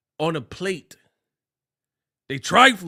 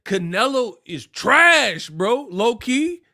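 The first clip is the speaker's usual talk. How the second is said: drawn-out diss; 7 semitones higher, 6 dB louder, slower than usual. Real, not acted. Dissing Canelo.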